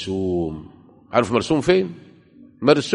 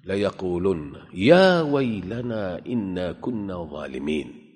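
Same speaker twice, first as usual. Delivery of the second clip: mournful recitation; slower than usual. Acted. Reciting the sinners' lament.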